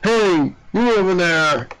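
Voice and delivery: Gumshoe voice. Acted. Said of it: "do a gumshoe voice".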